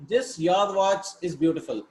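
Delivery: slow awkward literal reading. Shown as a demonstration. Teacher to students, showing the awkward literal version, slow. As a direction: read it slowly word by word, stiff and literal. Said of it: "It doesn't sound, right?".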